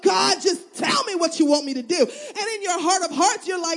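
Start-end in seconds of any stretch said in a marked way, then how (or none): 0.0-2.0 tearful plea. Pretend. Crying prayer retold.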